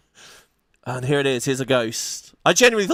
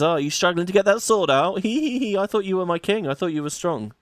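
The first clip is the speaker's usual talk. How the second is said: teasing high mage woman; 5 semitones higher than usual. Acted. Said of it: "And she says".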